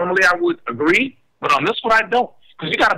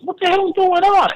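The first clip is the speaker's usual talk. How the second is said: retold alarm; 13 semitones higher, 4 dB louder than usual. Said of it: "I was".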